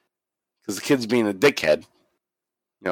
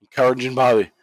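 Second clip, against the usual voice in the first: ordinary delivery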